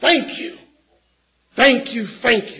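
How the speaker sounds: loud, high, play-acted call meant to carry. Retelling Luke 17, the speaker voices the cleansed Samaritan coming back: retelling a loud thanks. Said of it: "he comes back with a loud voice".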